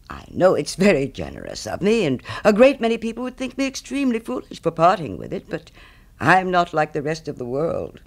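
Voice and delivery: lightly voiced pompous miller with big pitch swings; emphatic, swooping miller's speech, lightly characterised; self-satisfied miller. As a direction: play a miller grandly praising his own generosity. Miller in the story.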